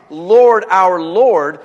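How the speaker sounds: proclaiming Lord. Acted. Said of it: "when the psalmist writes".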